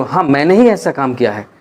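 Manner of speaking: ही punched, pitch falling after it; stress on ही. Shown as a demonstration. Teacher showing how to insist on ही. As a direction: lean hard on ही, then let the line fall. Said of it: "और उसे जोर देकर बोलते हो".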